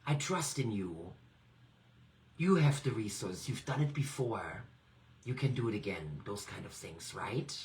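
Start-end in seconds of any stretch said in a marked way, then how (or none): 0.1-6.2 a touch of a pep talk to yourself; self-encouragement. Shown as a demonstration. Coach modelling encouraging self-talk, a touch of warmth. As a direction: cheer yourself on gently. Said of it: "by saying things to yourself".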